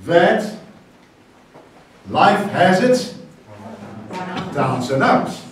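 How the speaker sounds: reversed proverb, slow then falling; slow reversed saying. Shown as a demonstration. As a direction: turn the saying around slowly. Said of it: "we are gonna say this morning".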